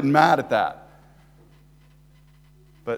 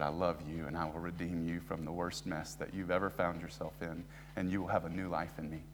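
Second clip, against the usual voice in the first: much softer, hushed, intimate promise; tender voice of God; 9 semitones lower, 16 dB quieter than usual. Acted. Preacher quoting God's promise to redeem, soft and tender. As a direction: say it close and gentle.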